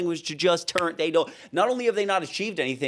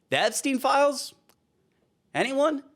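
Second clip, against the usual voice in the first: sarcastic question; 10 semitones higher than usual. Real, not acted.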